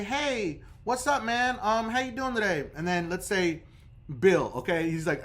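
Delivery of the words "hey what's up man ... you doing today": friendly higher-pitched greeting; acted super-friendly caller; extra nice. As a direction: greet the agent as nicely as you can. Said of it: "you're very nice to whoever you talk to".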